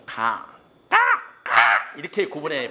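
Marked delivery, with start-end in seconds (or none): 0.1-1.5 가 then 까 with shifting tones; Chinese tones demo. Shown as a demonstration. Teacher showing students how Chinese tones differ. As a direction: sing the syllables 가 and 까 in different tones. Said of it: "중국은 어떻게 구분하는".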